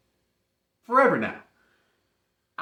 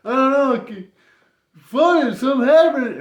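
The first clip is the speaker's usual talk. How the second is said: excited reply; 8 semitones higher, 8 dB louder than usual. Retold or imitated. Quoting reply about the flood.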